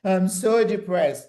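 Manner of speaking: slow, drawn-out, mock self-pity; mock pity party. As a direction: whine it out as a pity party, slowly. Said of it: "love to have a pity party".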